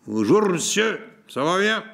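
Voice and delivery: high, lively little woman's voice; bright cheerful greeting. A narrator's reading. Young wife welcoming the traveller, high and cheerful. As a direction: greet him brightly, laughing at the edges. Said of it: "une voix claire l'interrompit".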